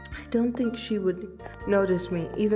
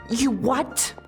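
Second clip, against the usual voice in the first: startled question with a rising pitch; shocked disbelief; 3 semitones higher than usual. Acted. Dancer hearing a friend's matchmaking idea, shocked. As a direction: blurt it out in disbelief.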